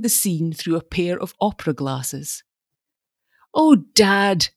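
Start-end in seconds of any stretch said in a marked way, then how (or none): 3.5-4.5 breathless cry. A narrator's reading. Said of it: "cried Stella's fresh young voice breathlessly".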